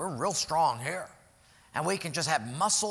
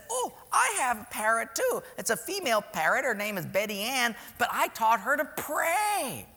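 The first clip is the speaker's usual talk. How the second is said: higher, sweet church lady voice; 5 semitones higher than usual. Acted. Church lady telling the man about her parrot, higher and sweet.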